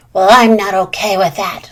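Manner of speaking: loud indignant squawk; squawking bird. Acted. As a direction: squawk it out, offended. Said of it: "squawked Blue Jay".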